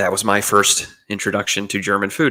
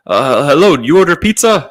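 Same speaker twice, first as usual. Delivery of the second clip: lifted, hesitant delivery-man voice, a touch louder; pizza man voice; 6 semitones higher, 3 dB louder than usual. Retold or imitated. Pizza man asks the hotel guest about his order, hesitant high voice. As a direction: play the unsure pizza guy on the phone.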